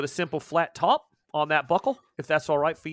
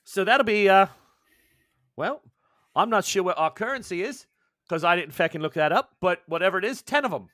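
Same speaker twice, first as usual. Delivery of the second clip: higher, louder cheery shopkeeper; higher, louder shopkeeper tallying up; 3 semitones higher, 6 dB louder than usual. Acted. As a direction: brightly announce the total like a shopkeeper. GM's shopkeeper rings up the sale.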